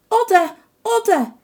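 high calling cry of a name. A narrator's reading. Wife calling her husband into the silent inn. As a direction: call into the dark house for her husband. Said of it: "riep Joukien".

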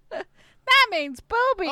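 high, loud, drawn-out cartoon host; Dora. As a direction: explain it slowly to young viewers.

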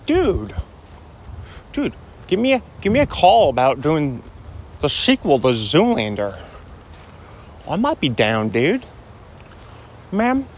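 a laid-back surfer talking up a sequel; Owen Wilson impression. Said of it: "when I was doing Owen Wilson".

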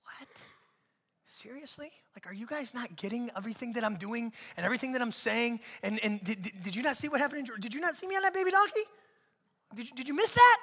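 incredulous, quick, rising disbelief; can't believe they missed it; exasperated Jesus. Retold or imitated. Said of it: "And Jesus is like".

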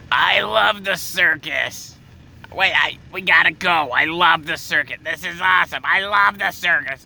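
high, gushing circus fan, stretched vowels; mock her overblown enthusiasm; loud excitable woman. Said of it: "stop being so loud".

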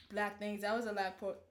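talking through burps; burping the words. Real, not acted. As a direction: speak through a burp. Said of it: "I'm burping".

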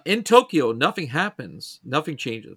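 deliberate announcer-like synopsis reading; synopsis read-aloud. Real, not acted. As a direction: read out a show summary with weight on the opening.

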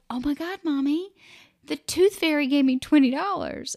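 put-on high, excited little-girl voice; excited child. Daughter telling mom about the tooth fairy, excited. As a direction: squeal it like a thrilled kid.

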